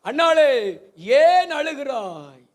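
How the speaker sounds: slow, drawn-out mock comfort, pitch up a little; husband soothing his weeping wife, lightly mocked; Elkanah consoling Hannah. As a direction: stretch the comfort out like a hollow sweet-talker. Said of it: "அன்னாளை பார்த்து எல்கனா சொன்னாரு".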